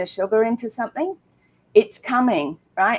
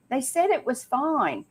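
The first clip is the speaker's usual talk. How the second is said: higher-pitched mock protest; mimicked excuse; 6 semitones higher, 4 dB quieter than usual. Host voicing people caught up in the diet, mock protest. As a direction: imitate someone pleading their excuse, pitched up.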